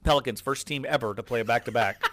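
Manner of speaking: nerdy know-it-all voice, lightly done; nerd voice. Retold or imitated. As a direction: play a little nerd reading a fact. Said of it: "I like your little nerd voice".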